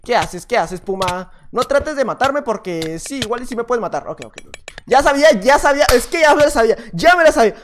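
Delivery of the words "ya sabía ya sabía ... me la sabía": loud, higher triumphant boast; excited gloating. Real, not acted. Gamer boasting to viewers after escaping, loud and excited. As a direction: crow that you saw it coming.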